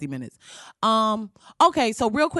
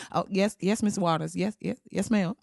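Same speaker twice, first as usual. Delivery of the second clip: softer, meek yes ma'am; mock timid underling; cowed staffer; 2 semitones lower, 5 dB quieter than usual. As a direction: shrink back and agree fast.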